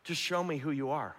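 quiet, simple pleading to God; gentle hushed prayer; soft prayer. Shown as a demonstration. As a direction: murmur it like a private prayer. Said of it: "it's a simple prayer".

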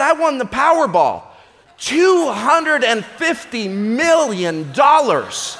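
boastful. Acted. Husband tells wife of his lottery win, gleeful. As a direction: savour the jackpot, drawn out.

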